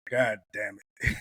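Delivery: low, slow dejected curse; mildly crestfallen, dragging the words; retold sadness. Young man learning his lesson, mock dejected. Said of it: "I was so sad".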